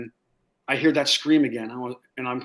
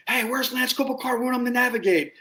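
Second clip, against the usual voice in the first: lightly voiced comrade calling out, pitched up; mock squad call; 10 semitones higher than usual. Squad mates asking for him, mock high call. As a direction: call him like a teasing buddy.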